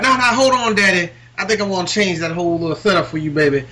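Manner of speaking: smooth-talk it like Dusty, calling him daddy; Dusty Rhodes impression. Imitating Dusty Rhodes for a friend, lightly voiced. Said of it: "that's an excellent Dusty Rhodes impression".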